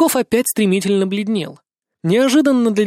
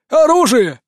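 louder, higher cry; shouted; 7 semitones higher, 6 dB louder, slower than usual. A narrator's reading. Buryakov shouting at the guard chief, loud. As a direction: bark it out with sudden courage. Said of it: "выкрикнул он".

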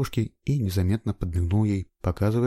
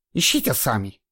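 through teeth; 3 semitones higher than usual. A narrator's reading. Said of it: "процедила женщина".

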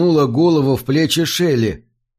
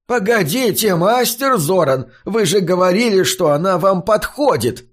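panicked, breaking high; frightened father's voice shooting up into a broken falsetto; 7 semitones higher than usual. A narrator's reading. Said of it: "Голос Раска взмыл под потолок ломаным фальцетом".

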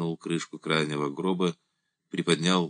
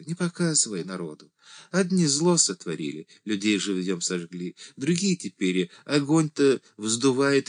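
higher, anxious church-servant voice; pleading old deacon; 6 semitones higher than usual. A narrator's reading. The deacon begs Andrey not to show the dead, high pleading. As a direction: beg in a thin high lament.

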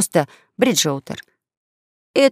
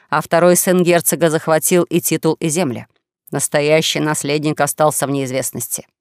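lightly declamatory voice, lower than the narration; self-styled duke; 4 semitones lower than usual. Acted. Young swindler claiming dukedom before raftmates, mildly theatrical lament. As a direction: declaim the noble lineage, slowing at the end.

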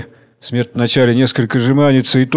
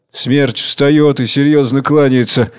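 usual speaking voice

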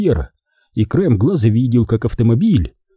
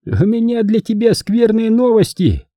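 cold even voice; 11 semitones higher than usual. Acted. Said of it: "холодным, ровным голосом".

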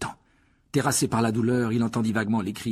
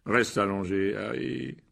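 gentle, lowered reassurance; soothing voice; much slower than usual. A narrator's reading. Lockhart to injured Harry lying down, soothing voice. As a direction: soothe the patient. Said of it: "d'une voix apaisante".

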